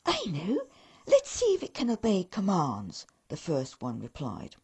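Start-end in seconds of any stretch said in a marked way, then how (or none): 0.1-3.1 keen elf with an idea. Acted. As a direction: elf proposing a test, keenly. First elf replies.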